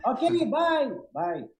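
flustered goodbye. Retold or imitated. Hurried hang-up after saying yes.

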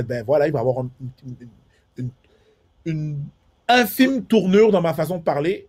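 refine it into Parisian-style French; French accent from France. Shown as a demonstration. Showing how he speaks with a Frenchman, accent of France. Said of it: "Si je parle avec un Français".

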